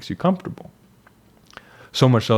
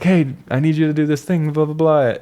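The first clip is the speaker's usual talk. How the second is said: demanding sister; 7 semitones higher, 4 dB louder than usual. Retold or imitated. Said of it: "my sister's like".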